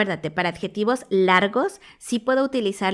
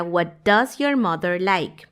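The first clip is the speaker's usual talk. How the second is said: slow contrast question; 3 semitones lower, much slower than usual. Shown as a demonstration. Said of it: "esa pregunta sería".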